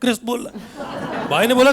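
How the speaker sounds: ordinary talk, nothing marked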